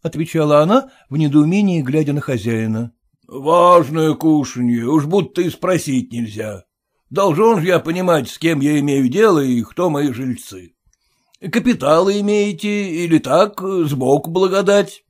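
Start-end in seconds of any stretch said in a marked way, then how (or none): 3.3-15.0 blunt merchant scoffing at formality; gruff merchant. Acted. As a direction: push in like the owner. Merchant prying.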